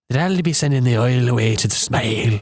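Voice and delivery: playful Irish imitation; amateur Irish vowels; mock Irish accent. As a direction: improvise in a put-on Irish lilt. Improvised phrase in mock Irish.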